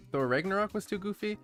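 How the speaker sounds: incredulous high question; surprised. Real, not acted. Reading a surprising chat message.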